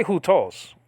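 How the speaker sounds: "hutos" said as a plain English-sounding HOO-tos, the way not to say it; wrong pronunciation. Shown as a demonstration. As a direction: mispronounce "hutos" on purpose as the bad example. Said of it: "Don't say".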